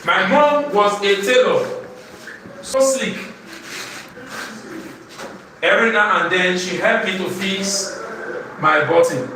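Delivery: measured classroom recitation; poem recitation. Shown as a demonstration. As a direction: recite line by line, pausing before the rhyme word.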